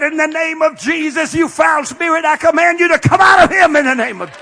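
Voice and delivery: shouted casting out of a spirit; commanding rebuke. Retold or imitated. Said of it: "I said".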